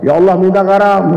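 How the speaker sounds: prayer voiced out for others to overhear; audible mock prayer. Worker prays aloud to hint for salt, playfully audible. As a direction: playfully pray aloud, meant to be heard. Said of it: "Kalau kurang kerasnya suara dikit".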